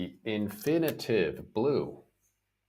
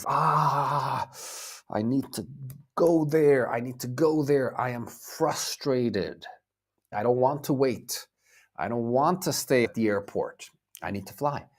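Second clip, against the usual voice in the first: mock-frustrated outburst, raised at first then easing; acted frustration; 4 semitones higher than usual. Teacher acts a traveler stuck at the airport, frustrated. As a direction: act out impatient frustration, stretching the key word.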